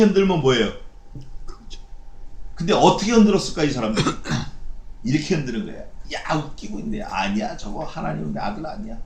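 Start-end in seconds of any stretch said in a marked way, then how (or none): 6.1-9.0 quiet, sneering scoff while shaking the head; scornful jeer. Shown as a demonstration. Preacher shows how the crowd jeered, quiet sneering scoff. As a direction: scoff under your breath at him. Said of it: "이렇게 흔들었을 거라고".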